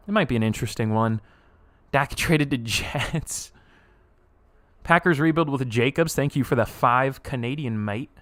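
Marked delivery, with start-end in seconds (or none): 6.1-8.1 half-British, half-Australian mock accent; muddled British-Australian accent. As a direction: put on an almost-British, vaguely Aussie accent. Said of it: "I don't know what that accent was".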